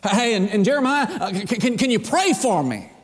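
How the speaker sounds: furtive king. Acted. King secretly asking the prophet for prayer, lightly acted furtive. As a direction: stammer out a sheepish request. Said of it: "king's sending messages in secret".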